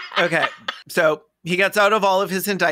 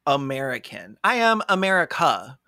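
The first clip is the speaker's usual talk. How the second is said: mock a blustering American defendant; lawyer's patriotic speech. Defendant addressing the court about America, mock outraged patriot. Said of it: "would be like".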